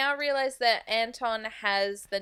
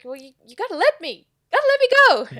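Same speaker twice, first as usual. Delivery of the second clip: mock urgent shout; 7 semitones higher, 10 dB louder, much faster than usual. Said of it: "he's like".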